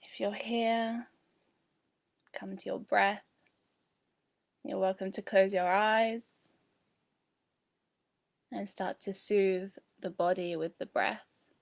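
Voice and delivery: calm, unhurried settling-in voice; guided meditation. Real, not acted. Host inviting viewers to close their eyes, calm meditation voice. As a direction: ease them into the breath, with long pauses.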